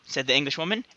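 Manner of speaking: put-on deliberately botched British accent, Dick Van Dyke style; bad English accent. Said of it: "Dick Van Dyke my accent".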